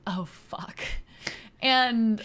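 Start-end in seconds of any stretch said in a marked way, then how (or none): 0.1-0.8 soft deadpan swear, imitated; eye-rolling exasperation. Dawn hearing the crunch mid-sex, understated exasperation. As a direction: mutter it like an understated eye-roll. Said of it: "she rolls her eyes".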